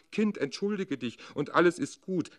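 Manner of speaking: mother calling out. A narrator's reading. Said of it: "Und die Mutter rief".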